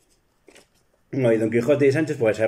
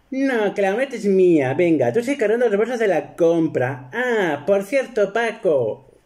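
much higher wife voice, giving orders; bossy wife; 8 semitones higher than usual. Retold or imitated. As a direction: order the husband about in her voice. (voz aguda de esposa mandona)

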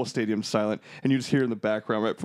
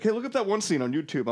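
imitating dad; 9 semitones higher than usual. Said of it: "To be like".

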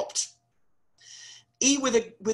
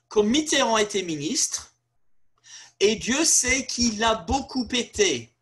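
quoting the prime minister; 3 semitones higher than usual. Retold or imitated. Prime minister speaking of Mitterrand, lightly mimicked. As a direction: lightly play a pompous politician. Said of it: "what he said was".

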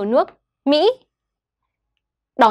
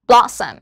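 "Blossom" with a strong BLO-, falling -ssom; stress on first syllable. Shown as a demonstration. Teacher repeats the word after explaining stress, BLO- stressed in "Blossom". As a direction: punch the start of "Blossom". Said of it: "âm đầu tiên là blot".

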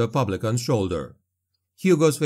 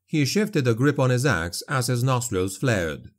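plain reading voice

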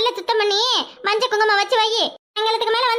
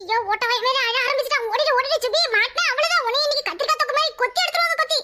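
alarmed warning; 3 semitones higher than usual. Acted. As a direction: pitch climbing into a quick panicky rush. Child warns of trouble after fight. (பதற்றத்துடன் வேகமான எச்சரிக்கை)

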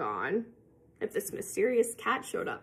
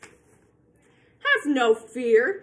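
slow soothing cat; 6 dB louder, much slower than usual. Acted. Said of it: "said the cat".

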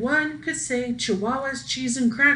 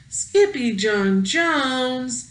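slow, drawn-out louder call; crying out; 3 semitones higher, 5 dB louder, much slower than usual. Acted. Everyone crying out to the kitty boy, loud. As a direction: cry the name out together. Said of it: "everyone cried".

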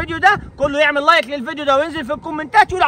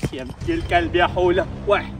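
deep gruff man voice; 10 semitones lower, 6 dB quieter than usual. Acted. The male character curses.

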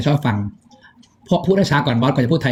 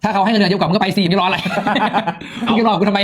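higher-pitched mock scolding with a laugh; playful retold telling-off; retold urging; 4 semitones higher than usual. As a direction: urge them to go, half joking. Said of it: "เราก็เลยบอกว่า".

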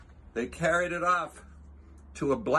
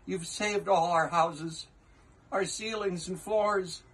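tiny mayor; 6 semitones higher than usual. Acted. Who mayor thanking Horton, small higher grateful voice.

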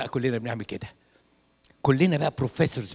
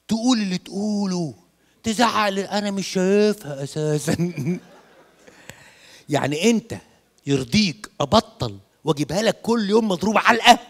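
higher, laughing mock complaint about wife; 5 semitones higher, 5 dB louder than usual. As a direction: laugh through the grievance. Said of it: "بيقول لي". (زوج بيشتكي من مراته وهو بيضحك)

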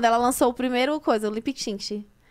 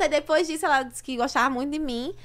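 normal talking voice

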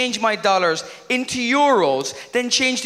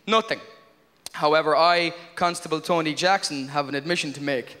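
lower, solemn formal testimony; mock court testimony; 4 semitones lower than usual. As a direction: read it out like a sworn statement. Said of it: "I should have said this".

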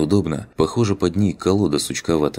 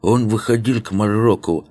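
put-on lisping old man; 3 semitones higher than usual. Old man tells, slow voice.

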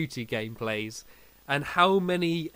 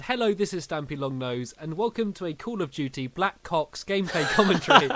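recites the intro, then starts laughing at the slip; botched intro, laughing; 3 semitones higher than usual. Retold or imitated. Recording his intro with a friend, laughing at his own slip. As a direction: laugh breaking through the last words. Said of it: "instead of saying that".

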